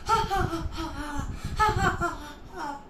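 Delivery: spelt-out stage laugh; acted mocking ha-ha; laughing at them. Boy mocks the fooled villagers, with acted laughter. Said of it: "The boy was laughing at them".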